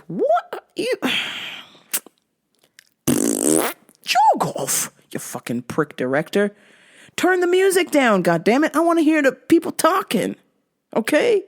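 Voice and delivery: high, indignant mock rant. Ranting at the show's director, indignant mock rant. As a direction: yell at the director in fake fury.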